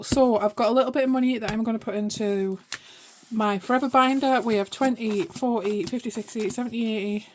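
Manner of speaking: puffing after running upstairs; out of breath. Real, not acted. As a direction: talk between quick breaths. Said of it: "Sorry, I'm a bit out of breath running up the stairs".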